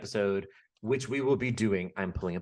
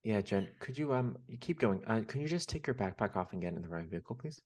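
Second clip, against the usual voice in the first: mock ride operator; 8 dB quieter than usual. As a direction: play a weary cast member on the mic. Mock ride announcer scolding Jen.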